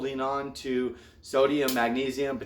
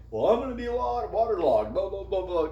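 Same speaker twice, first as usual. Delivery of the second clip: mocking whiny; 6 semitones higher than usual. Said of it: "Some people will say".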